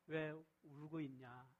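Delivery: soft, slow, tender asking; gentle. Shown as a demonstration. Jesus asks weeping Mary gently, tender and slow. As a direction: comfort her as you ask. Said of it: "이런 좀 부드러운 말이에요".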